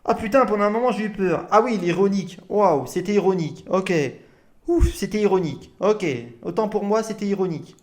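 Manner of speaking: sarcastic, exaggerated relief, repeating it's ironic; mock relief. Streamer mocks the man's claimed irony with fake relief. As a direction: pretend to breathe easy, dripping sarcasm.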